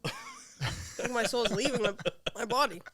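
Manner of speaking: talking through hiccups; words broken by hiccups. Real, not acted. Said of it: "I'm hiccuping now".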